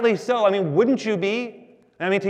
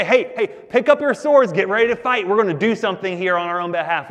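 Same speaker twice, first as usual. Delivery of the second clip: rally the troops in a raised voice; mock battle rally; 4 dB louder, faster than usual. Mock battle rally Moses didn't give.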